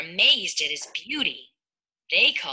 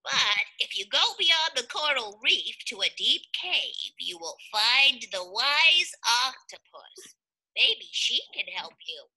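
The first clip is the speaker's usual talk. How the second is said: starfish voice; 4 semitones higher than usual. Acted. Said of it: "said the starfish".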